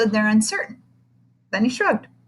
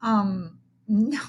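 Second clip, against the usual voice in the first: stammer; slower than usual. Acted. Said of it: "stammered Calvin".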